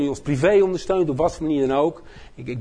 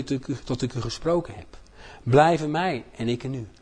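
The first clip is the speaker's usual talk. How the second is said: slow, solemn Bible reading; scripture reading. Acted. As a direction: read each verse deliberately. Reads John 15 aloud.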